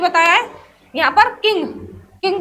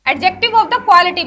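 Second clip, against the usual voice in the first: each word drawn out slowly for students to write; teacher's slow, clear dictation; 3 dB louder, much slower than usual. Shown as a demonstration. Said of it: "पहला है क्वालिटी".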